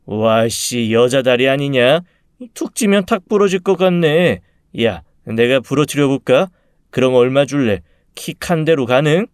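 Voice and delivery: jeering school bully, picking a fight; taunting bully. Acted. Bully sneering at a skinny classmate in the corridor, taunting. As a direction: taunt a weaker boy with lazy menace. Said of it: "주악거리더군요".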